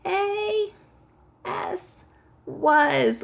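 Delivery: high, squeaky spelling; squeaky mouse voice. Pretend. Teacher spells with children as tiny mice, squeaky. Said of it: "spell it with me in a squeaky voice".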